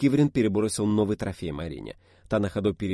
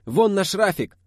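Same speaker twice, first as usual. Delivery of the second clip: high, loud pointing-out shout; loud hollering; 10 semitones higher, 6 dB louder, slower than usual. A narrator's reading. Kivrin shows the group their minibus, hollering. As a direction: holler to draw everyone's attention. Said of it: "загласил Киврин".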